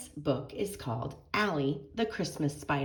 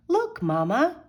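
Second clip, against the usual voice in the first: put-on excited little girl; 10 semitones higher, 8 dB louder, slower than usual. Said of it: "she said".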